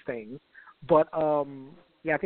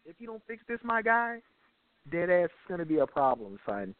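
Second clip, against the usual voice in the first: put-on New York accent; 3 semitones higher than usual. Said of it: "New York guy's like".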